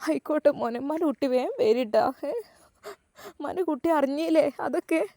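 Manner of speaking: soft, hushed mother thanking God; relieved tearful mother. Acted. Mother says goodbye to son.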